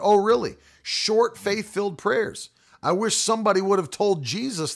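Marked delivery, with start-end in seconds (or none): 0.0-2.5 sarcastic. Retold or imitated. Preacher scoffing at the short-prayer teaching, sarcastic. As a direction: scoff at the idea, light sarcasm. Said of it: "I thought".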